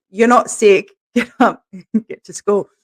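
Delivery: firm but laughing; laughing scolding. Retold or imitated. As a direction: tell him off while chuckling.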